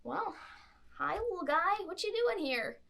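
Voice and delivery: lightly voiced Valley Girl nun; Valley Girl friar. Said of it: "he's like".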